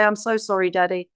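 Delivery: lightly voiced child to daddy; childlike apology. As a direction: say sorry like a small child.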